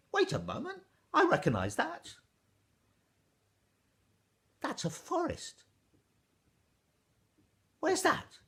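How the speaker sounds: put-on high, loud, eager boy; a young boy suddenly recognising something; boy's voice. Ash boy surprised at the weaving, high and eager.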